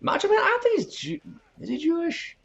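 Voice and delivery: high, raspy wrestler growl; gravelly Macho Man impression.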